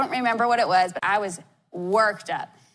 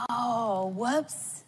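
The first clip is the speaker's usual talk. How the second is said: sheepish whoops; 2 semitones higher, 6 dB quieter than usual. Retold or imitated. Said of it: "you're like".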